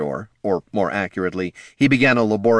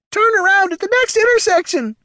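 high, loud mechanical shriek; the gadget screams directions; screaming robot voice; 6 dB louder than usual. Acted. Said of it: "screamed the gazer".

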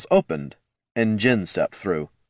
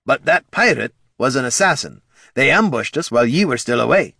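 higher, urgent dwarf voice; earnest dwarf; 5 semitones higher, 4 dB louder than usual. Acted. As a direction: explain hurriedly as the dwarf. Dwarf explains with accent.

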